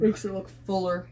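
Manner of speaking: yawning. Real, not acted. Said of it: "I keep yawning".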